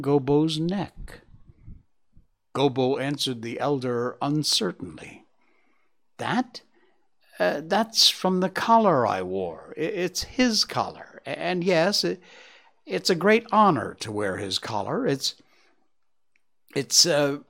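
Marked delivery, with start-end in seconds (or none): 6.2-17.4 confused stammer. Acted. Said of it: "he became confused and stammered".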